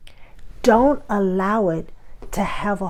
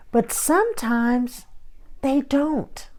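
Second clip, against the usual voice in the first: hushed emphasis; 7 semitones higher, slower than usual. Real, not acted. Sermon point made in a hush.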